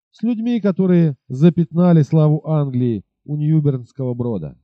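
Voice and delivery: rider mocking the captain, calm and disdainful. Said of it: "спокойным насмешливым тоном".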